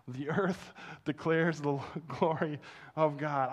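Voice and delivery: laughing through the words in wonder; laughing awe. Retold or imitated. Pastor recalling the mountain view, laughing in awe. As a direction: giggle it out, amazed.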